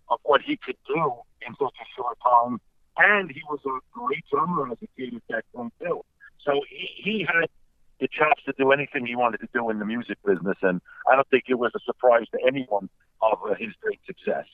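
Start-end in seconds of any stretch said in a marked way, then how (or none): 3.0-14.4 muffled phone-line sound; underwater. Real, not acted. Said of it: "Tony sounds like he's underwater a little bit".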